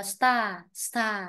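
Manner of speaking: "star" with a long open AH ending; STAA, drawn-out model "star"; model pronunciation. Shown as a demonstration. Teacher corrects star sounding like start, model pronunciation. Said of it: "em đọc cái từ này giống từ bắt đầu".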